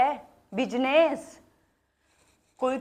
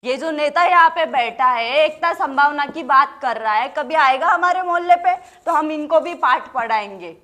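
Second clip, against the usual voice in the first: loud, raised jab at a politician; bold public taunt; 3 semitones higher, 5 dB louder than usual. Acted. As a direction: call him out before the crowd. Mocks seated politician before crowd.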